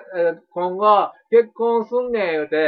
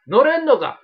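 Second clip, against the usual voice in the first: japanese delinquent tough talk; 7 semitones higher, 6 dB louder than usual. Pretend. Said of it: "まだやってんねや、俺、そのノリ".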